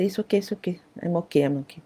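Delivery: put-on soft, hushed child reassurance; child reassuring. Child softly tells father he's okay. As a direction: murmur it's okay to reassure dad. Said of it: "lepas dia kata".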